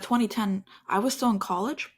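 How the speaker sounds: slight lisp from new aligners; talking through a fresh Invisalign lisp. Real, not acted. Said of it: "Sorry for the lisp".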